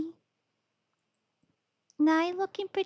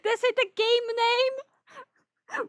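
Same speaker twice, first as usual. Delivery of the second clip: mock excited; 9 semitones higher, slower than usual.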